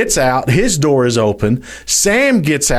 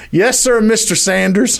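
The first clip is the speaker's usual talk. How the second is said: quoting Bob; 6 semitones higher than usual. Retold or imitated. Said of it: "He says".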